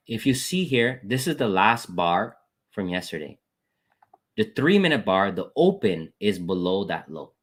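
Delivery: deliberately slow, with pauses between phrases; walk through it slowly, step by step; slow repeat. Real, not acted. Trader replaying the morning's chart for viewers, very slowly. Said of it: "I'm gonna repeat this very slow".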